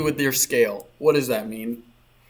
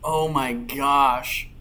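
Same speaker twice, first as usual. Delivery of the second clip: burning mouth, gasping words; mouth on fire. Real, not acted. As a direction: talk through a burning mouth. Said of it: "my mouth is on fire".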